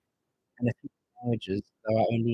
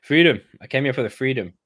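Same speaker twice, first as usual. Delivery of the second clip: mock patriotic shout; 3 semitones higher, 6 dB louder than usual.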